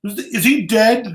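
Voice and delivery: a hint of a crying girl asking; tearful girl. Crying young fan asks him if the actor died, lightly imitated. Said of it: "she's looking at me and she's crying".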